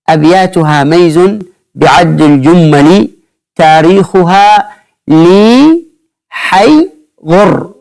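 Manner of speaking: slow, drawn-out chant of the poem line; recited verse. Acted. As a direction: intone the verse slowly, word by word. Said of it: "كما ذكرنا في عقيدة العوام". (إنشاد بطيء لبيت الشعر)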